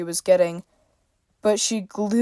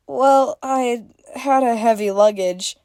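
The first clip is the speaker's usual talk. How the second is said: laughing Freya; 4 semitones higher than usual. A narrator's reading. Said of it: "she laughed".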